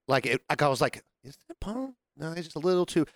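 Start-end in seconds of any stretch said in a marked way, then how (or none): 1.2-2.6 high, very soft question; tentative, hushed double-take; hushed wondering. Retold or imitated. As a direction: wonder it quietly to yourself. Spotting a lookalike, wondering to himself.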